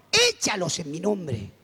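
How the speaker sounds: a drawn-out, measured order from heaven, lightly voiced; voice of God. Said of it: "siento una voz que me dice".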